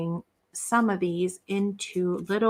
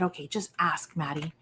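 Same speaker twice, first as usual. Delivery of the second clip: quiet self-talk; 3 semitones lower, 7 dB quieter than usual. Retold or imitated. Gives herself a pep talk.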